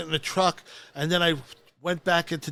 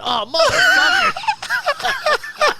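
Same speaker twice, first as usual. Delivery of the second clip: very slow, drawn-out, much higher through laughter; the moment it dawns on him; long laughing cry of disbelief; stunned groan; 6 dB louder, much slower than usual. Retold or imitated. Realizes he moved truck.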